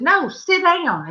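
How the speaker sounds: lightly acted firm command; firm sisterly order. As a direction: retell a sister putting her foot down. Sister orders her to sit.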